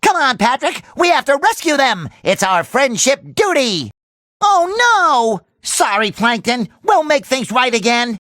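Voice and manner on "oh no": dismayed. Acted. Dismay at the damage.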